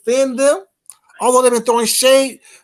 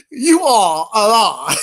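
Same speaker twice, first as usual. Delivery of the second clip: slow shout; 4 dB louder, slower than usual. Real, not acted. Shouting at chatter.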